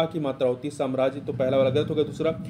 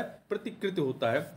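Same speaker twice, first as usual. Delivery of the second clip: प्रतिकृत said slowly, softer; repeated for emphasis; 5 dB quieter than usual. Shown as a demonstration. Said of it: "क्या होता है?". (दोहराकर, धीमे)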